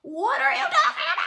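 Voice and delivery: high, loud laughing disbelief; incredulous. Retold or imitated. Storyteller reacting to the spazzing woman, incredulous. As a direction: squeal it in mock bafflement.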